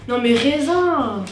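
slow drawn-out groan of dismay. Real, not acted. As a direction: stretch it out, disappointed. Dismayed at getting grapes.

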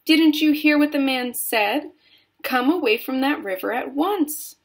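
high, loud scolding; calling out. A narrator's reading. Missus Gloop ordering her son from the river, calling out. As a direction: order him back like a cross mother. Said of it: "called out Missus Gloop".

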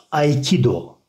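"Aikido" said ay-KEE-do; careful ay diphthong in "Aikido". Shown as a demonstration. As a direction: model "Aikido" starting with ay. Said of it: "ay okunduğu için".

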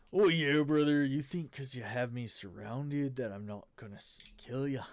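put-on Wraith voice sliding into a Cockney accent; Cockney slip. Game master voicing the Wraith taunting surrounded heroes, Cockney accent. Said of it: "Why did my voice go Cockney".

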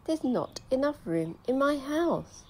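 put-on grumbling old lady. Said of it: "heard her grumble and grouse".

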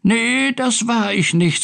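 high-pitched kitten denial; little cat. A narrator's reading. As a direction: pipe it as a small cat. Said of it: "sagte Findus".

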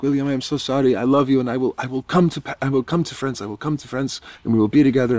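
high, pleading mock tearful girlfriend; mock teary goodbye. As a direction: imitate a teary promise. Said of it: "very teary goodbye".

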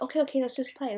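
mock impatient placating; impatient brush-off. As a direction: mimic players eager to move on. Imitating players brushing her off.

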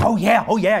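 mock excited. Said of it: "getting all fired up and getting all excited".

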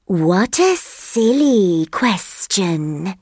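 slow, unhurried snake voice; lazy snake. Acted. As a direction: let the sleepy snake take its time. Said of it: "said the snake".

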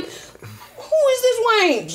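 slow, disdainful sneer; scornful grandma. Acted. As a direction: drag out the insult slowly.

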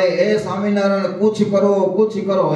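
mock desperate shout, pitched high; retold shouting. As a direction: cry out to Swaminarayan for help. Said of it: "રાડો પાડે".

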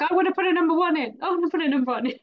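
fast, high and loud, with a laugh at the end; playfully imitating an eager friend; eager Fiona. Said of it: "And Fiona's like".

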